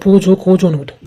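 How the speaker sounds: mock her pet name பூஜு with a sneer. Boy mocking Pooja's pet name to tease her. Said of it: "என் பேரெல்லாம் கிண்டல் பண்ற".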